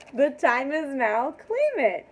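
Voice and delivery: loud, high, punched-out call; rousing proclamation. Real, not acted. Reader urging viewers to claim blessings, rousing. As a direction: proclaim it loud, leaping up on the last words. Rallying viewers, emphatic take.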